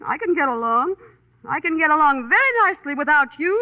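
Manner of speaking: huffy, at an ordinary pitch and volume; huffy independence. Acted. Woman telling her companion she can manage alone, mildly huffy. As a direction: declare you need nobody, mildly huffy.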